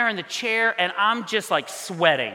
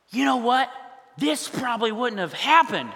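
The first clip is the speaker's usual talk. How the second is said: higher, pointed blame, acted out; accusing; 5 semitones higher than usual. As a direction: lay the blame, drawing out the last words. Blames mom for the reunion.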